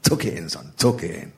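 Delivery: hushed northern scolding; mock northern accent. Host quietly telling Dom to stop, mock northern. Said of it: "mock northern accent".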